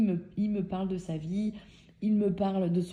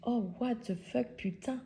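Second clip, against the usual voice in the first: soft, raised-pitch mock disbelief; stunned aside; 3 semitones higher, 6 dB quieter than usual. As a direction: swear under your breath, stunned. Stunned private reaction to message. (juron stupéfait, à mi-voix)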